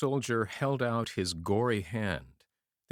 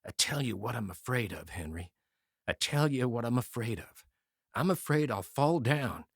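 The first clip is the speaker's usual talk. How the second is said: shaking whisper; 3 semitones higher than usual. Acted. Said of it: "speak in a shaking whisper".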